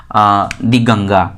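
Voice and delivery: दी गंगा drawn out slowly and low; दी गंगा read slowly as an example. Shown as a demonstration. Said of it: "जैसे कि".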